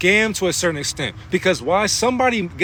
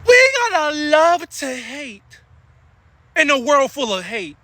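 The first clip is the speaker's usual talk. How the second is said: slow exalted proclamation; 7 semitones higher than usual. Real, not acted.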